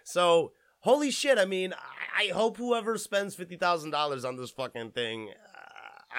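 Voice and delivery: normal talking voice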